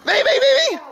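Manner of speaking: high, eager come-on calls; excited cheering. Real, not acted. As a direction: hype the dogs up. Egging the dogs on.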